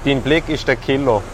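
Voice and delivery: put-on rhyming pickup lines with a Thurgau accent; mock Thurgau dialect, verse by verse; Thurgau German. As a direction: recite a little love poem in put-on Thurgau dialect. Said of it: "Das Ganze natürlich im Thurgauer Deutsch".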